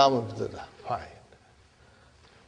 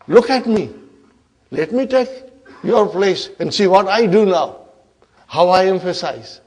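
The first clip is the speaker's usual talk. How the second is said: boastful challenge; 2 semitones higher, 4 dB louder than usual. Acted. Inna takes over lam's place, boastful. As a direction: show them up, taking over.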